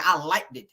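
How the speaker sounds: "liked it" said as like-did; two hard d's in "liked it"; mocking Wanda's pronunciation. Quoting Wanda to the viewers, "liked it" as like-did. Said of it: "wanna be saying liked it".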